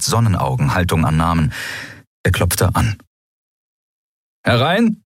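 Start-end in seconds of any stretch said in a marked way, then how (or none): 4.4-5.0 a sharp high call through the door. Acted. Stranger behind the door calling visitors in, a sharp call. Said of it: "rief eine fremde Stimme".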